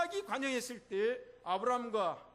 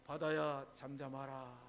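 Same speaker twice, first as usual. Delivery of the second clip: commanding Jesus; 6 semitones lower, slower than usual. Acted. Voicing Jesus calming sea.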